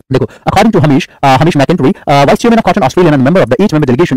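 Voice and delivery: reading the passage in a put-on British accent; a hint of a British accent on the English reading. Shown as a demonstration. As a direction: lightly try a British accent for the class. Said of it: "अच्छा British accent में".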